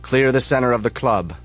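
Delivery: loud firm order; leader's call. Acted. Chapter leader orders the floor cleared, loud call. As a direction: call it from the darkness. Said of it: "yells the voice".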